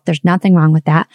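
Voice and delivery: ordinary talk, nothing marked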